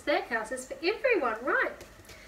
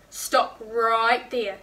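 put-on slow, loud bossy child blocking the door; George's stern halt; 7 dB louder, much slower than usual. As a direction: drag out each word like a stubborn gatekeeper.

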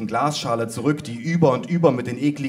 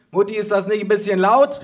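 raised, high-pitched call; mother calling out; 9 semitones higher, 6 dB louder than usual. A narrator's reading. Mother to grandma over blaring Christmas music, calling out. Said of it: "rief meine Mutter".

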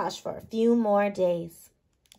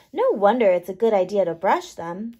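plain reading voice

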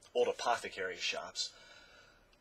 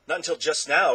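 Milo; 5 semitones higher, 8 dB louder than usual. Acted.

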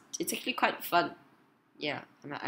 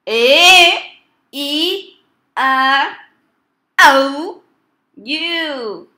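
loud, high, drawn-out vowel calls; belted vowels; 7 semitones higher, 12 dB louder, much slower than usual. Real, not acted. Player feeding vowels to a voice-controlled game, belting. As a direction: belt each vowel high, one by one.

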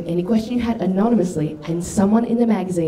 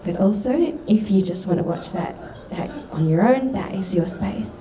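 timid stepmom; 3 semitones higher than usual. Acted. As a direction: tiptoe in apologetically, careful not to intrude. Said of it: "she peeks her head in and she goes".

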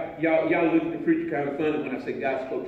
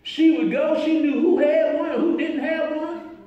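raised, emphatic preacher's cadence; animated preaching; 9 semitones higher, 8 dB louder than usual. Real, not acted. Preacher bragging on Sue as key keeper, animated preaching. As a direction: build the praise point by point.

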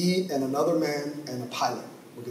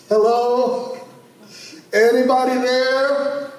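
high, loud anxious call into the mic; calling out on radio; 9 semitones higher, 6 dB louder, slower than usual. Retold or imitated. Lost preacher radioing for help, high anxious call. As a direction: hail anyone on the airwaves.

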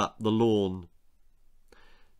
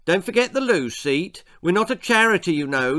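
shouting orders; 6 semitones higher, 4 dB louder than usual. A narrator's reading. Dad shouting orders while packing.

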